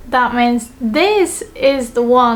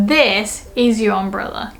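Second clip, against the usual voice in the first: THIS held and set apart; stress on THIS. Shown as a demonstration. Pointing out Tanaka's umbrella, stress on THIS. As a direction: lean on "this", let the rest fall. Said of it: "I wanna put emphasis on the word this".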